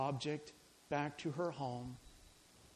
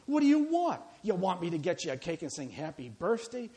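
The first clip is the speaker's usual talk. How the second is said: a mildly nasty, mocking retort; 4 dB louder than usual. Friend snapping at the birthday woman, mildly nasty. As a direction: sneer it at her like a put-down. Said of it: "responded in a nasty tone".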